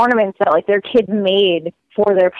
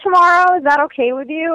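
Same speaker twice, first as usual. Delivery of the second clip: put-on polite kids; 7 semitones higher than usual. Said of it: "And they're like".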